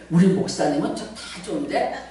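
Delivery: low, soft mock gossip; imitated critic. Preacher imitates members criticizing the pastor, low and soft. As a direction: quietly voice a reserved complaint. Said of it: "누가 또 뭐라 그러나".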